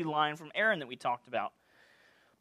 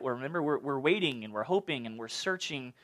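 ordinary delivery

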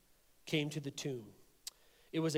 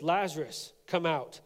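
louder calling out the name; 5 dB louder than usual. Acted. Preacher voicing Jesus calling Lazarus, louder call. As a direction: call him out of the tomb, louder. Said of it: "Jesus called in a loud voice".

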